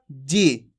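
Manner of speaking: जी said with a short, quick "i"; short vowel. Shown as a demonstration. Hindi teacher models the short i sign, short vowel in जी. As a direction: keep the vowel in जी brief, not drawn out. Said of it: "कम खींच के पढ़ा जाता है".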